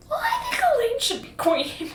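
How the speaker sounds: squeaky high, sweet noble lady; a put-on high voice for the reluctant heir; high mock Dylan voice. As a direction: pitch it way up like a demure noblewoman. Dylan voiced in retold scene.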